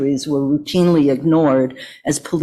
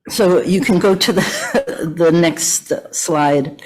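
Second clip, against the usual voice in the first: slow, laughing through the words; slower than usual. Real, not acted. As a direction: laugh as you ask. Laughs while asking for slide.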